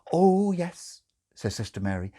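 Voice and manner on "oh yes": higher, bright reassurance; eager nurse. Acted. Nurse over-eagerly reassures the father. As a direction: insist too quickly.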